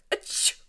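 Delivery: short dragon sneeze; acted sneeze. A narrator's reading. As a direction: let a sneeze burst out. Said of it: "the dragon's sneeze".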